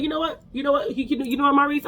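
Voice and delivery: mimicking the man. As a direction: pitch it up high to imitate him. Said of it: "He's like".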